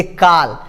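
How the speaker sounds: "काल" with a long pure aa; wrong open vowel. Shown as a demonstration. Teacher showing a mistake, "काल" with plain aa. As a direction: say "काल" with aa in place of aw. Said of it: "ये नहीं बोलना होता है".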